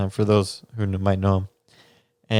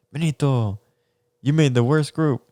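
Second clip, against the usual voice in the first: teasing teacher; 5 semitones higher than usual. Retold or imitated. Teacher's blunt verdict quoted.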